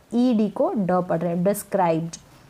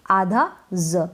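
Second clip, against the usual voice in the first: slow emphasis; 3 semitones lower, much slower than usual. Shown as a demonstration. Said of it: "क्या पढ़ेंगे".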